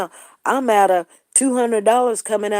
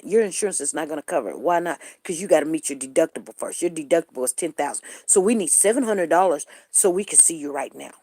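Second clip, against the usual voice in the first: clinic clerk voice; 5 semitones lower, faster than usual. Retold or imitated. Imitating clinic staff.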